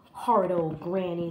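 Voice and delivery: low, grumbling wolf; sore, grumpy storybook wolf; growling wolf. Acted. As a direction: growl it resentfully. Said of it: "the wolf growled".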